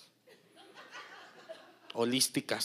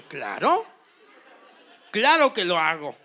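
eager yes; 7 dB louder than usual. Retold or imitated. Masseuse eagerly accepting job.

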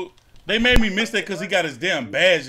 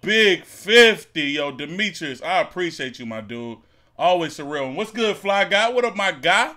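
hyped gamer bro. Real, not acted. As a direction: stretch out the thanks, hyped. Thanking a donor on stream.

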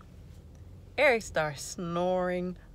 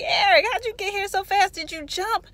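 high, loud disbelief; astonished retold question; 6 dB louder than usual. Woman greets brother at the door, astonished. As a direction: exclaim it in comic amazement.

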